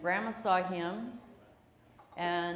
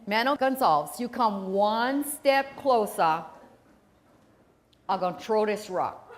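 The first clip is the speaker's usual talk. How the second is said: threatening warning; 7 dB louder than usual. Retold or imitated. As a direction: warn him off firmly, word by word. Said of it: "She said".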